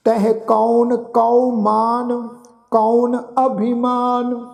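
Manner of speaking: slow, measured chanting of sacred verse; slow scripture recitation. Acted. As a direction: draw each word out reverently.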